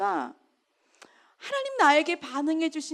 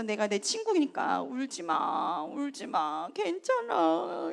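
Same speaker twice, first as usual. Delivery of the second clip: retold soft comfort; 5 dB quieter, slower than usual. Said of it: "막 이러면서 이제 막 위로를 했어요".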